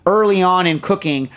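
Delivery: half-strength mock telling-off; imitated yelling. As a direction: berate him like a cranky friend on the phone. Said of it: "him yelling at us about X, Y, or Z".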